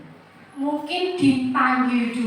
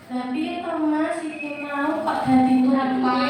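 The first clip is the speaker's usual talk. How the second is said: soft reproach; 6 dB quieter than usual. Shown as a demonstration. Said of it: "Beda ya, Bu?".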